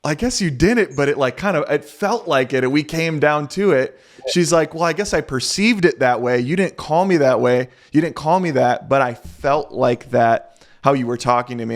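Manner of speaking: imitating his wife. Wife explains her feeling.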